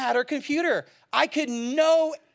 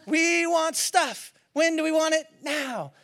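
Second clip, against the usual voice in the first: cheerleader; 5 semitones higher than usual. Acted. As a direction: call and answer like a cheer squad. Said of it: "That's what it kinda sounds like".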